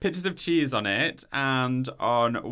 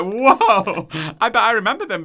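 laughing; 7 semitones higher, 8 dB louder than usual. Retold or imitated. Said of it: "I went, and I was like".

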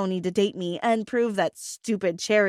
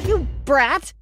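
raised-pitch, contained yell; mild yell of insult; 5 semitones higher, 4 dB louder than usual. A narrator's reading. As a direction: lash out without a full shout. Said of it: "I yelled".

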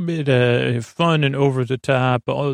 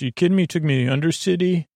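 quick, higher disbelieving voice; a touch of mock outrage, faster; incredulous Martha; 4 semitones higher, much faster than usual. Martha doubts where they landed.

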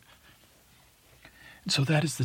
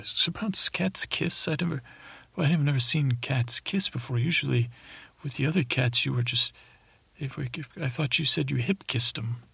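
higher, wide-eyed questioning of Sir Pounce; high surprised voice; 3 semitones higher than usual. Acted. Teller voices himself asking Sir Pounce, high and amazed. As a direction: ask him high, amazed and a bit unsure.

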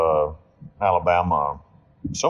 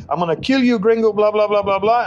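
wounded gunman yelling threats at the gringo, imitated; retold screaming; 10 semitones higher than usual. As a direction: squeal it like a man on the ground. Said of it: "starts screaming".

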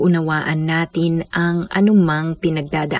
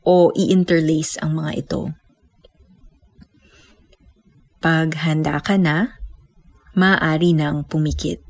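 guided meditation. Acted. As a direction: guide them gently into stillness.

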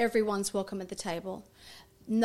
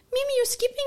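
surprised delight; 13 semitones higher, 4 dB louder, faster than usual. Retold or imitated. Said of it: "I'm like".

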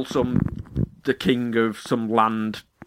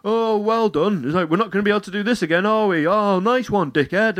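sarcastic; 8 semitones higher than usual. Retold or imitated. Mocking office guys retold.

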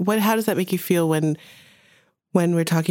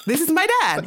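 excited recognition; 12 semitones higher than usual. Real, not acted. Recognizing her dad's orange habit.

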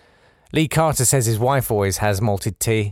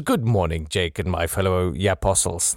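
Jem's accent, lightly attempted in a lower pitch; attempted listener's accent; 4 semitones lower than usual. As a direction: have a half-hearted go at Jem's accent. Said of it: "That's my attempt at your accent".

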